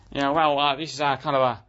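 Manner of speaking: lightly put-on New Zealand Australian accent. The speaker defends his New Zealand Australian accent to Ben. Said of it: "a New Zealand, uh, Australian sort of an accent".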